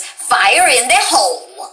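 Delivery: slow, lightly accented bomber's call; a hint of Brazilian explosives-lover, drawn out; Brazilian game character. Shown as a demonstration. Showing her own character's different version, slow Brazilian accent. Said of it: "like the version of Junkrat".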